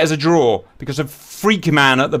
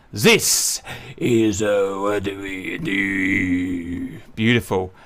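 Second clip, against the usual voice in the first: softer, lower, slow and baffled; quiet; 10 semitones lower, 5 dB quieter, much slower than usual. Real, not acted. Gamer puzzled that the enemy won't shoot, quiet. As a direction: trail off in disbelief.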